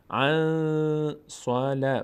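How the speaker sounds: عن held in a long nasal hum before صلا; drawn-out nasal nun in عن صلا; nasal ikhfa. Shown as a demonstration. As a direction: chant عن صلا slowly, hiding the n in the nose.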